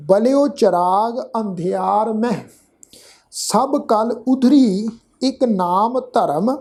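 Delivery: slow, measured verse reading with drawn-out vowels; scripture recitation. Shown as a demonstration. Teacher modelling the verse for congregation, slow measured recitation. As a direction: recite word by word, lingering on long syllables.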